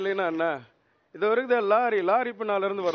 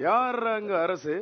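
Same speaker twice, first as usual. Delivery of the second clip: acted challenge; slower than usual. Acted gangster challenge, calling out a name.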